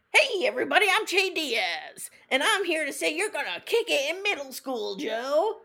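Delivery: loud, high, hammed-up hype-man greeting; a brassy cameo shout-out at full volume; Che's cameo voice. Mocking Che's cameo bit at bedtime, hammed-up and loud. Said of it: "I'm just gonna act this out".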